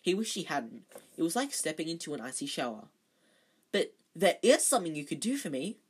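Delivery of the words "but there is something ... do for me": excited. A narrator's reading. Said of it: "said Nick excitedly".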